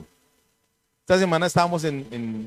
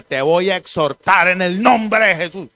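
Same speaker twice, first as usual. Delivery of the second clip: mock stern rebuke; 5 dB louder than usual. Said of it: "exhortar es coger y regañar".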